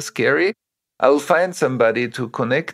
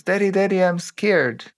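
put-on higher, pleading child voice; scared little girl; 6 semitones higher than usual. Daughter running to her father, scared and pleading. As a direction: play the frightened daughter calling her dad. Daughter's plea, second version.

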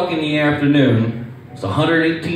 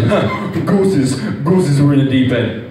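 imitating the coach. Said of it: "He goes".

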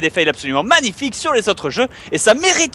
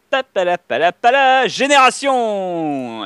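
dramatic announcement; slower than usual. Pretend. Launching random number generator.

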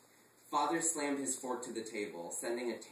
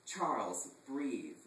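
soothing; 2 semitones higher, much slower than usual. Acted. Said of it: "Rupert said soothingly".

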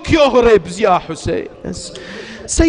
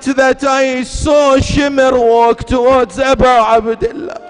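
impassioned elegy; 3 semitones higher than usual. Acted. Zainab tells the Prophet of Shimr, crying out. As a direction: preach the killing at full force.

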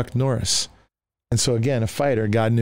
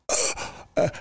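unvoiced-sounding, breath-only gasp of shock; stunned gasp; 5 dB quieter than usual. Tough guy caught out by the preacher, stunned gasp. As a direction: let out a soft, winded "ugh".

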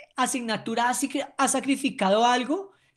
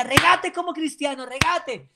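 coach urging; 4 semitones higher, 4 dB louder than usual. Retold or imitated. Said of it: "Yo le decía".

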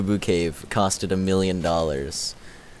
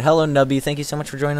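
slightly hoarse greeting; raspy voice; 6 semitones higher, 3 dB louder, faster than usual. Real, not acted. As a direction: greet them with a raspy throat. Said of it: "My raspy voice?".

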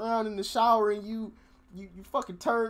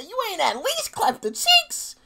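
stunned whisper; 11 semitones higher, 4 dB louder than usual. Real, not acted. Disbelief at the stripper story.

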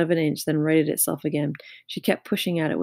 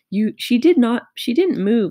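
put-on children shouting, higher and louder; cried out; 6 semitones higher, 6 dB louder than usual. A narrator's reading. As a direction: shout it out as a class. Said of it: "they cried out".

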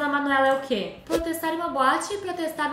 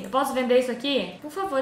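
ordinary talk, nothing marked

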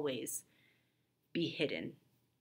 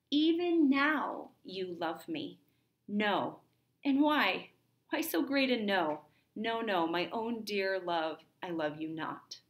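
raised, heartfelt stage voice trading denials; acted play dialogue; 2 semitones higher than usual. Teacher acting Cyrano and Roxanne's farewell, heartfelt stage voice. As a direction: play the lovers' back-and-forth of denial and love.

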